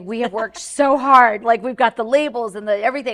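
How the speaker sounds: loud, laughing protest from the friend; mock outraged friend. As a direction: playfully act out the friend's outrage. Friend protests the name change.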